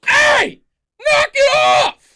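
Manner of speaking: high, loud angry dad yell; angry dad shout. Shown as a demonstration. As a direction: bark it like a furious father. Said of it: "All we are looking for is these four words".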